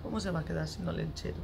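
soft murmur to yourself; regretful aside. Acted. Parent pitying child left without Olentzero, hushed regret. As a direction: doubt your own threat under your breath.

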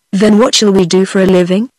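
mildly despairing question; understated storybook despair. A narrator's reading. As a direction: plead a little, at a loss. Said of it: "inquired Benny, despairingly".

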